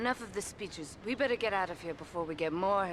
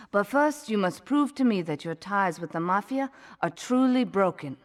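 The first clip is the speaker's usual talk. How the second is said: firm and loud, laying down terms; stern loud confrontation; 7 dB louder than usual. Acted. Asuka confronts the hired gun about his Mafia ties, stern and loud. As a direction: lay it on the line, hard and loud.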